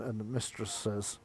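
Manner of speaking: usual speaking voice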